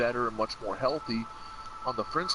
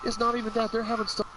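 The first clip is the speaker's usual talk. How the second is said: emphatic objection; 7 semitones higher than usual. Real, not acted. Arguing with co-host.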